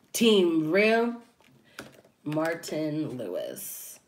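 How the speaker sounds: light copy of the YouTuber's drawn-out sign-on, slow at the end; imitating his intro. Host copying another YouTuber's channel intro, lightly voiced. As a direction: say it along like his catchphrase. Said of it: "let's listen to his intro".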